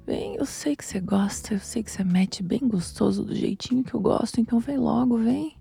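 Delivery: soft, coaxing invitation; coaxing husband. Acted. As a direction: coax a partner with playful impatience. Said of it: "perguntei assim pro meu marido".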